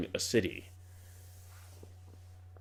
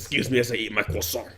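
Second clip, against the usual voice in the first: mock French accent; 3 dB quieter than usual. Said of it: "French accents literally don't sound like that".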